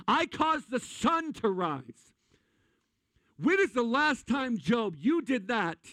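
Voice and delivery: slow, high, rising mock God voice; booming God. God challenging Job, slow grand proclaiming voice. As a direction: draw it out like a proud deity. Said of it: "Here comes God going".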